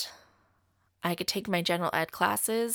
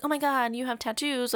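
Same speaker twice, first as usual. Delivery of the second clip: higher-pitched mock enthusiasm; imitated excited coworkers; 5 semitones higher than usual. Coworkers press her about a hairdressing tattoo, mock excited. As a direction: gush like an eager coworker.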